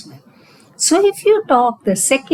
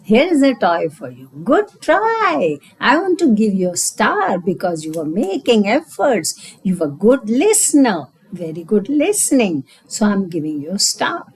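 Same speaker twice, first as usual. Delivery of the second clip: put-on praising the child. Shown as a demonstration. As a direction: cheer the child's effort warmly. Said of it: "And I will always say".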